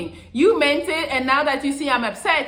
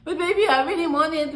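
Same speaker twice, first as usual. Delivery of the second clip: put-on whiny girlfriend; 5 semitones higher than usual. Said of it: "She's gonna cry because you don't wanna buy her something".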